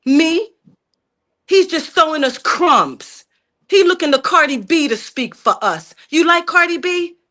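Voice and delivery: worked up, pitch riding a little high; heated, indignant challenge; fed up and arguing from the gut; getting emotional. Real, not acted. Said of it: "I'm getting emotional with this type of crap".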